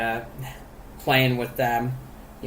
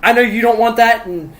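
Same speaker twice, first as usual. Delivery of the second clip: amused menacing quote; 5 semitones higher, 6 dB louder, faster than usual. Retold or imitated. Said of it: "He's like".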